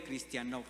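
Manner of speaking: cristianov with the stress on the final syllable, -nov; Greek word. Shown as a demonstration. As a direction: land the stress on the end of cristianov. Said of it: "con acento en la última".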